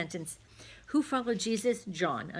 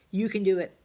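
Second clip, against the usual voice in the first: encouraging; 7 dB louder than usual. Real, not acted. Encouraging the pupils.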